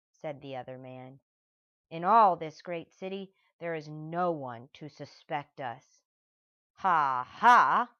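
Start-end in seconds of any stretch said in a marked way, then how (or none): 1.9-6.0 mildly loud boast. Acted. Max boasts. 6.8-7.9 loud mocking ha ha; scornful ha ha. Stanley mocking the thieves inside his head, loud scornful laugh. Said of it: "thought Stanley Lambchop".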